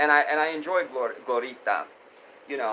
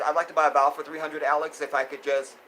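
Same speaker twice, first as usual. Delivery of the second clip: game show contestant; 4 dB louder, faster than usual. Retold or imitated. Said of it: "And I'll just add".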